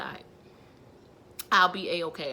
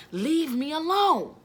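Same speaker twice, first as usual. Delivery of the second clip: quoting daughter; 8 semitones higher, 6 dB louder, slower than usual. Retold or imitated. Daughter's retold words.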